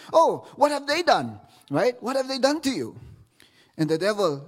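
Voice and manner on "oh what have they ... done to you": higher, mock-concerned question; lightly voiced curious Jesus; Jesus asking. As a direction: ask it with amused sympathy. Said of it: "And says".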